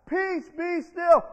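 Jesus calming the storm; calm command. Acted. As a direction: still the storm with authority. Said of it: "he got up and said".

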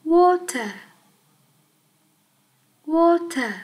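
"Water" said clearly for repeating; repeat model. Shown as a demonstration. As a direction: lead the class in "Water". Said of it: "lặp lại theo cô". (đọc mẫu "Water" cho các em lặp lại)

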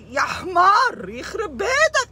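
high, tearful mock yell at the man; exasperated shout. Comic scolding of the jealous Egyptian man, tearful shouting. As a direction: yell برضه بتحبك انت يا حمار in comic despair.

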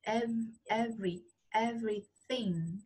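slow "every, everything" broken down on the v; drawn-out model "everything", v sounded; clear v sound. Shown as a demonstration. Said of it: "Âm này là âm v".

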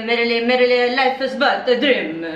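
put-on Italian accent.

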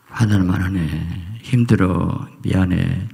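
soothing demo. Shown as a demonstration. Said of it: "그만 한마디 말하면 되게 잘하거든요".

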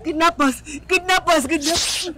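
tearful repeated outcry; distraught cry. Acted. Mother names who took her daughter, crying. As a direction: wail the word out in distress. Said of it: "Please don't cry".

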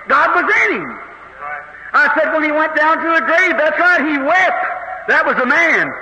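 emphatic revival preacher; fervent preaching. Real, not acted. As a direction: press the argument home, drawing out key words. Preaches with growing force.

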